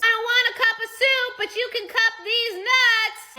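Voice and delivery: imitated husband's high, loud holler; yelling across house. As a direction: holler it to another room, punching the words. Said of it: "from across the house, he yells".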